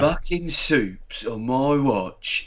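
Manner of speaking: slow, muddled Cockney-Australian impression; imitated wandering Antipodean Cockney accent; Kiwi-British-Australian mix. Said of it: "It's like a mix of".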